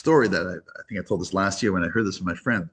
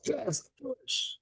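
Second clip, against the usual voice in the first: high, drawn-out excited yell; teriakan gembira; 8 dB quieter, much slower than usual. Retold or imitated. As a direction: yell it out high, stretching the words. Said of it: "out loud, he yells".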